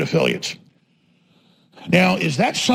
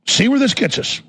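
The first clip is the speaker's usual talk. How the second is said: higher-pitched, pointed dare; raised challenge; 5 semitones higher than usual. Real, not acted. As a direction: toss it out as a challenge. Same words said higher, then slower.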